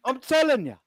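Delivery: lightly voiced wheeler-dealer salesman; a hint of a pushy car dealer; Terry Tibbs. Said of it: "my dodgy impersonation".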